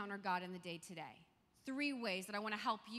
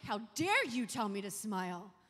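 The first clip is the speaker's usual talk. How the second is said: loud, indignant retort, slowing on the refusal; retold angry retort; 7 dB louder than usual. Snapping back at a stranger who says smile, loudly indignant. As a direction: fire it back at him, offended and loud. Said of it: "I was so mad".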